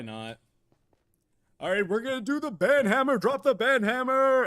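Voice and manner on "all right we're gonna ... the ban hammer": loud, high hype-man call; rallying hype shout. Pretend. Streamer rallies chat to ban someone, shouting hype. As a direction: holler it to the whole crowd.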